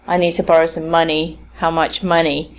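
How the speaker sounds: "money" stressed both times, quickly quoted; learners' misplaced stress. Retold or imitated. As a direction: imitate a learner putting final stress on "money". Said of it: "often learners of English will in fact say".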